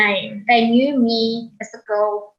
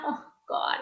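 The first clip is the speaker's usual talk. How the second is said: whispered oh God; 11 dB quieter than usual. Real, not acted. Overwhelmed recalling crying daughter.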